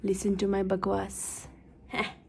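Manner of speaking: very slow, soft title read; title announcement. Shown as a demonstration. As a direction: spell out the title slowly. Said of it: "title में लिखूंगी".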